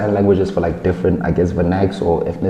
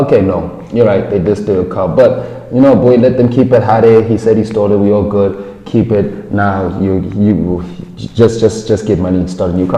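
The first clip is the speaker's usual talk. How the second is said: a cop brushing off a theft victim, mock-patronising; mock police officer; 4 dB louder than usual. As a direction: play a smug cop. Voicing police in car analogy.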